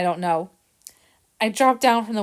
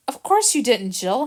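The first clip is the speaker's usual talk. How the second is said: calm reassurance; 3 semitones higher than usual. Acted. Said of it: "Harrison answered calmly".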